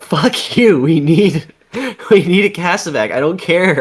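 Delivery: furious soldier shouting; angry shout. Retold or imitated. Soldiers yelling for a Kasavak.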